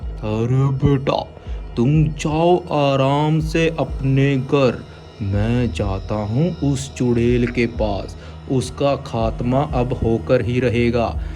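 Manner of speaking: slow steady baba voice; calm holy man. Acted. Baba assures. (शांत बाबा)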